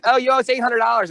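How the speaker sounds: high-pitched mock receptionist; imitated receptionist girl. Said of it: "And the girl's like".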